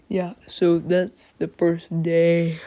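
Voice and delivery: drowsy, slow and tired; sleepy. Real, not acted. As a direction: talk like you're half asleep. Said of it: "Sorry for being sleepy".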